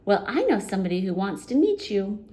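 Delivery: quick, lightly voiced goblin. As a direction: rattle it off playfully. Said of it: "said the goblin".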